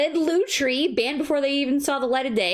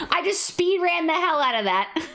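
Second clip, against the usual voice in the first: words through laughter; real amused boast; chuckling while talking; laughing. Real, not acted. Laughing at own speed.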